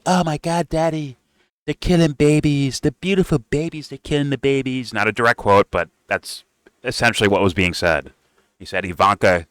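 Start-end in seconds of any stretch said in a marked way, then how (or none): 0.1-4.9 much higher, hammed-up pleading daughter; mock daughter pleading. Daughter begging her father to act, hammed-up high plea. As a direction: whine it like a panicked daughter to Daddy. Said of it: "She's like".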